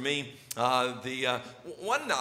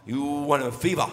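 imitating his son. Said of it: "and he go".

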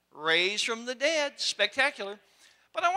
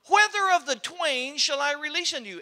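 Pilate asking again; 3 semitones higher, 3 dB louder than usual. Acted. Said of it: "we're gonna do that again".

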